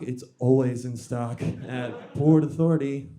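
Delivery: loud mock jingle tagline; punchy fake commercial tag. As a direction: sell it like a store slogan. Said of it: "It's a jingle on the house".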